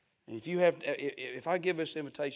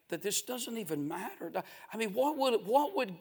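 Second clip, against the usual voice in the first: higher-pitched, urgent sermon delivery; impassioned preaching; 7 semitones higher, 3 dB louder than usual. Real, not acted. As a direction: press the congregation with anguished questions.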